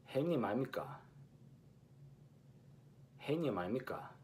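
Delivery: 형님 아닙니까 as 아이미까, ㄴ dropped; lazy-tongue Busan take; Busan pronunciation. Shown as a demonstration. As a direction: Busan dialect contrast take. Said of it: "note the difference between".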